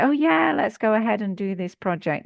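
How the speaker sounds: a big high "Oh yeah", hammed-up glee; mock-gushing, rushing into it; super happy. Speaker imitating her super-happy self, mock-gleeful. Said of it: "When I'm super happy, I say".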